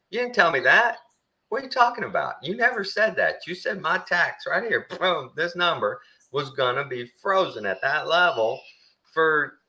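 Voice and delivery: high, outraged protest, each line pushed up; imitating a furious customer who feels cheated; livid old man. Old man yelling at the clerk about his frozen taxes, high and outraged. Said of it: "the guy's just livid".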